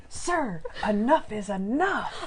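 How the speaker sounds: imitating a firm rebuke, slowing down. Co-host acts out Monk confronting the coughing man, firm. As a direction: put your foot down, mock-firm. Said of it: "you were so firm".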